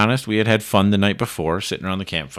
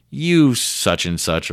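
slow, louder, higher mock curse; mock angry curse; 6 semitones higher, 6 dB louder, slower than usual. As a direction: drag out the insult once you see the prank. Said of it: "and then he goes".

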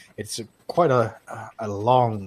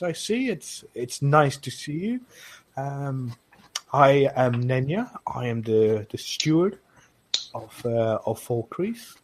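put-on Nord accent; 3 semitones higher than usual. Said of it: "the really thick Nord accent".

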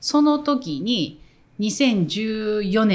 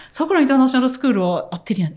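retold Kansai accent; 3 semitones higher, much faster than usual. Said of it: "撮り直しで。".

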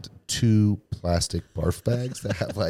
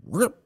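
quick high "rrrip"; sudden swooping yank sound; imitated ripping noise; 13 semitones higher than usual. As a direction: zip upward like a plane pulled hard. Imitates pilot yanking into the loop.

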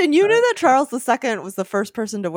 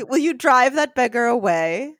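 put-on mildly cross young master; a touch of haughty anger; angry; 4 semitones higher than usual. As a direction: order the servant crossly. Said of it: "said Godfrey angrily".

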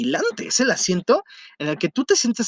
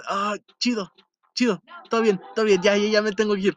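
hesitant doubting. Retold or imitated. Rushing grandpa off the phone among strangers, hesitant. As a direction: hedge it, doubting every word. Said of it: "Todavía como dudando".

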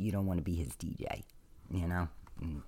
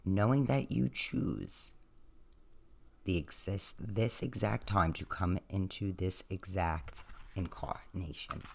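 guided meditation; 2 semitones higher than usual. Acted. Opening guided reflection.

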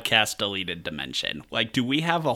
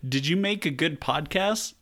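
higher-pitched imagined gatekeeper question; mock interrogation at the gates, pitched up; heavenly gatekeeper; 6 semitones higher than usual. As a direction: put the question like a heavenly screener. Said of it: "I was gonna say".

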